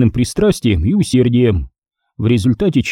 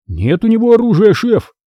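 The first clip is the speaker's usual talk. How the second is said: assuring; 9 semitones higher than usual. A narrator's reading. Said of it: "заверил парень".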